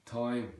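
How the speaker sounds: "Time" as "toim"; OI vowel in "Time"; Southern Irish pronunciation. Shown as a demonstration. Teacher demonstrating Southern Irish, "Time" with OI vowel. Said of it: "another O I sound".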